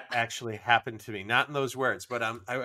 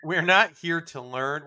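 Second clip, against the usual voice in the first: laughing, higher protest; 4 semitones higher than usual. Real, not acted. Host laughs telling cohost they're not here to learn, laughing.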